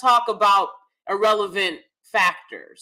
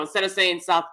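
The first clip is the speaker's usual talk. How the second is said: South African accent attempt; 3 semitones lower than usual. Shown as a demonstration. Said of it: "I see the South African accent as".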